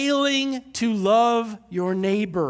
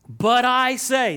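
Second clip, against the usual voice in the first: slow, deliberate reading; measured scripture read; read slowly; 2 semitones higher, 4 dB louder, slower than usual. Shown as a demonstration. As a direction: give each word its time. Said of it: "I'm gonna read this really slow".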